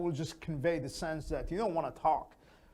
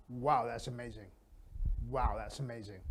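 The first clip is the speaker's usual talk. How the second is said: much lower and softer "Wow, that's amazing"; monotone; 6 semitones lower, 6 dB quieter than usual. Shown as a demonstration. Teacher showing the bored wrong way, monotone.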